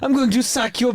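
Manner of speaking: mock Welsh leech going for blood; Welsh accent. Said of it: "Why is that so funny in a Welsh accent".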